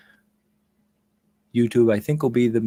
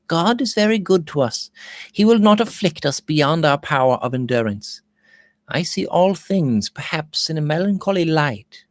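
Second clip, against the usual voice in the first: governess soothing, voiced higher; gentle governess; 4 semitones higher than usual. Governess calming the frightened miner, gently voiced.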